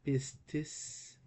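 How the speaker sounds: pistis said slowly as "pees-tees"; deliberate model of pistis; careful pronunciation. Shown as a demonstration. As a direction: pronounce pistis in two careful syllables. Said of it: "Why do I pronounce it pistis?".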